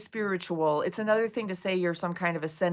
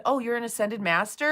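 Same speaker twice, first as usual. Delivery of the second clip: sarcastic question; 3 semitones higher than usual. Retold or imitated. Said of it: "and I said".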